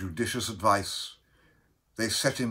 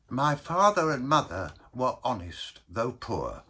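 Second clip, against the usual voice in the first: lightly voiced mournful Baker; tale of woe; 4 semitones higher than usual. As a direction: begin a mildly solemn life story. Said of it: "told his story of woe".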